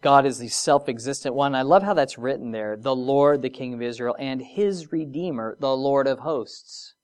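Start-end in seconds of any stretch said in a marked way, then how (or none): 2.8-6.9 lingering reread. Acted. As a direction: linger on each title tenderly. Savours rereading the verse.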